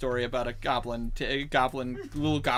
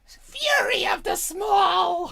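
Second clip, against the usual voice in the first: very high, slow, drawn-out goblin war cry; goblin battle cry; 6 dB louder, much slower than usual. Acted. GM announcing a small goblin's fury, very high, slow, drawn-out battle cry. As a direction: cry it out like a tiny warlord. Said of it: "goblin battle cry".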